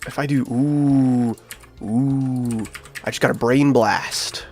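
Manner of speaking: normal talking voice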